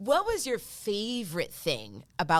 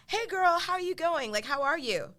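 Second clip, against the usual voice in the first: put-on Australian accent; 9 semitones higher than usual. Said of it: "Your accent's on par".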